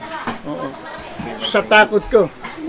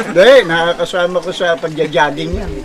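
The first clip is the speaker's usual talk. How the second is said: lightly acted, lower-pitched explaining husband; excusing husband; 5 semitones lower than usual. Husband explains gym acquaintance to wife, lightly excusing. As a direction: play the husband making a low-key excuse.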